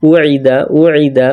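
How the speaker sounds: উইদা with a smooth উ and no glottal catch; উইদা, let the উ glide in without a hamza stop; plain u, not hamza. Shown as a demonstration. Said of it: "সাধারণ মতো উ না হয়".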